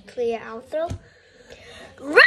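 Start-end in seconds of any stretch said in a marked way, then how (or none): 2.0-2.2 roar. Shown as a demonstration. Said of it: "let's roar like a big, strong tiger".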